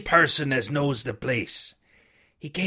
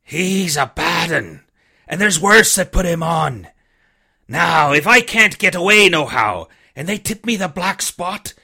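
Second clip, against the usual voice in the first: lower, rough-hewn pirate voice, wheedling; a weak old seaman coaxing the boy; dying buccaneer begging the boy for rum; old sick sea captain; 3 semitones lower than usual. Acted. Captain speaks on.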